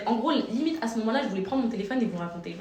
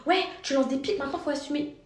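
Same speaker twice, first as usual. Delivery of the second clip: mock accusation; 6 semitones higher than usual. Stranger accuses again.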